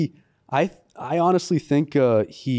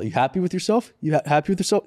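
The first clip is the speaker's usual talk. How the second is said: mild mock yell, pitched up; raised-pitch accusing questions; retold yelling; 5 semitones higher than usual. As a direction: imitate an accusing rant without real volume. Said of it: "he starts yelling at the girl".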